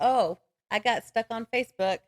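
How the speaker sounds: ordinary talk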